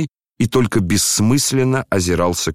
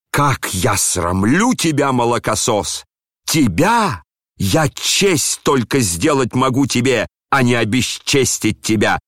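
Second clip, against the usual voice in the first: slow, higher-pitched indignation; outraged retort; 4 semitones higher than usual. Acted. Father rebuking the son who shamed him, outraged retort. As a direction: stretch the words in wounded pride. General answers his son in quarrel.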